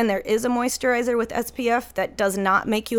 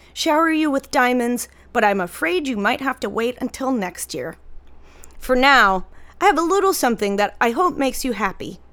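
doting mom reading; 2 semitones higher than usual. Retold or imitated. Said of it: "she sent this one out on my birthday".

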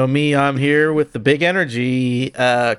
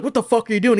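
mock angry shout; 10 semitones higher, faster than usual.

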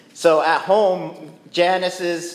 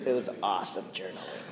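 softer, lower smug boast; mock brag; 6 semitones lower, 12 dB quieter than usual. Preacher mocking believers who brag about quiet time, soft and smug. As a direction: brag sweetly about devotions.

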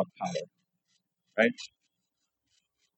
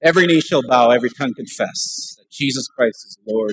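scripture proclamation. Retold or imitated. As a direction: proclaim it forcefully at a demon. Re-enacts casting out a devil.

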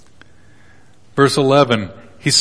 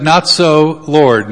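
protesting; 3 semitones higher, 5 dB louder, much slower than usual. Acted. Peter protesting to God.

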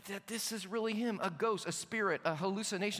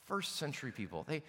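condescending mock; 9 semitones lower, 5 dB quieter than usual. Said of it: "we look at things like this and we say".

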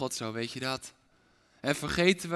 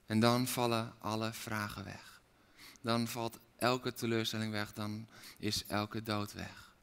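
much softer, intimate and near whisper; hushed preaching; 5 semitones lower, 9 dB quieter than usual. Acted. Preacher softly calling each listener, hushed. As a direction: speak as if into one ear.

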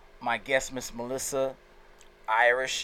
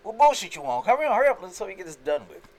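impatient up north attitude; 5 semitones higher, 4 dB louder than usual. Retold or imitated. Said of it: "They be like".

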